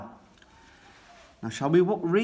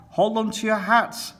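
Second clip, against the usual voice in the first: excited shout; 9 semitones higher than usual. A narrator's reading. Grampy Rabbit shouts to his passengers, excited, as they zoom off. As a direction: yell it over the roaring engine. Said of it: "shouts Grampy Rabbit".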